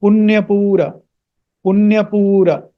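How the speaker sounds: Punyapura with long u and sounded final a; careful pronunciation. Shown as a demonstration. Teacher models the word for students, careful pronunciation. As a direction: finish Punyapura on an open a. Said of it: "not Punyapur".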